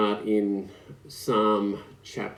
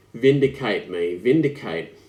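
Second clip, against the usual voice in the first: Vindicate punched louder, repeated; stress on vindicate; 5 dB louder than usual. Shown as a demonstration. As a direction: hammer the word Vindicate. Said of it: "Vindicate means to clear".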